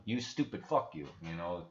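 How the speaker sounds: mock Russian accent, rough broken English; fake Russian accent. Streamer impersonating Putin cursing in fake Russian accent. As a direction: play Putin swearing in a put-on Russian accent. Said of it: "it does sound kinda Russian".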